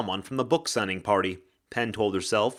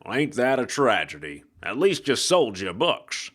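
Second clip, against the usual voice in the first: hard-boiled ghost. Acted. Ghost detective voice.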